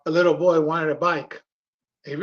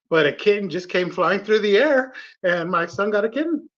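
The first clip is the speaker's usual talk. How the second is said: louder, higher retelling of a wondrous report; retold amazement; 3 semitones higher, 4 dB louder than usual. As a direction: build excitedly as an astonished storyteller. Retold churchgoer amazed by flying kitten.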